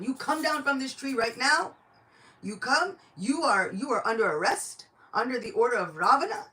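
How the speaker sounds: high, loud barked order; shouting minister. Acted. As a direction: shout an arrest order up a tree. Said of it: "he's shouting at Hanuman".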